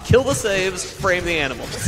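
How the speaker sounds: a touch of villain glee; gleefully menacing decree; mad scientist. Acted. Villain decree after cackle.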